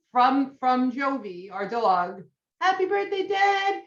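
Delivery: high mock dog voice; dog's voice reading card. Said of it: "I'll read the card to him and I'll be like".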